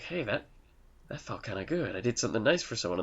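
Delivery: softly voiced retold realisation; quiet, understated musing to oneself; mild pleasant surprise. Businessman after helping kids, soft touch of wonder.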